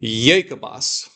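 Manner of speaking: slow, careful model of Jacobus; said slowly. Shown as a demonstration. Teacher models Jacobus slowly for students to repeat. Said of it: "I'm gonna read this slowly".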